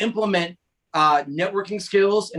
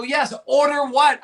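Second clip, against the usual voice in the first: confused Boston server; 7 semitones higher, slower than usual. Retold or imitated. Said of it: "They go".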